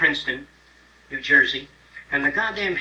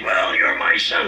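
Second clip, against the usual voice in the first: mock proud dad, slow and whispered; proud father; 8 dB louder, slower than usual. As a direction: play the smug father claiming his son.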